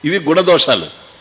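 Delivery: ordinary delivery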